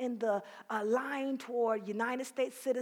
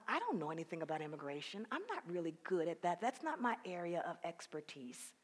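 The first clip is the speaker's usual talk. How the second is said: doubtful thought; 6 semitones lower, 6 dB quieter than usual. Retold or imitated. Retold doubting inner thought.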